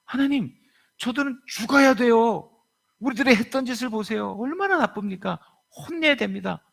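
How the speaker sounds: high, pleading indignation; indignant Jonah. Acted. Jonah complaining to God, high indignant plea.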